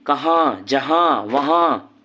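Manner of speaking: कहाँ, जहाँ, वहाँ with nasal final आँ, slowly; nasal vowel demo. Shown as a demonstration. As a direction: show the nasalised ending of कहाँ. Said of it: "ऊर्ध्व अनुस्वार भी कहा जाता है". (कहाँ जहाँ वहाँ अनुनासिक उच्चारण)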